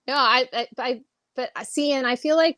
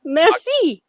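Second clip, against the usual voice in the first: slow, raised mock French accent; playful French accent sign-off; 12 semitones higher, slower than usual. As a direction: ham up a French accent, drawn out. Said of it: "say your jokes with a French accent".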